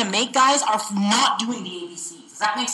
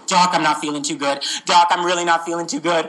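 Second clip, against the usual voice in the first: lower-pitched ailing patient; acted sick patient; 4 semitones lower than usual. Shown as a demonstration. Sick patient tells doctor he feels bad, acted ailing. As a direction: complain to the doctor as a lightly voiced patient.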